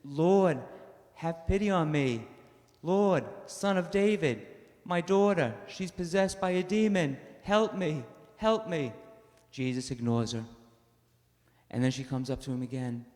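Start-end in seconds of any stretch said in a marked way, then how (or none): 0.0-8.9 higher, louder desperate plea for her daughter; pleading woman. Acted. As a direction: beg for help. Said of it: "she's a foreigner, and says".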